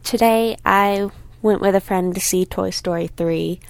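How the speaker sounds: slight lisp from a retainer. Real, not acted. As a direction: talk around a retainer in the mouth. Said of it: "I just realized I'm wearing my retainer. Am I lisping?".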